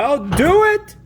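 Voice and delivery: loud, high, eager yell. Acted. Toy Palpy accepting the movie role, eager loud yell. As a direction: blurt it out, thrilled to be cast. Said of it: "I said".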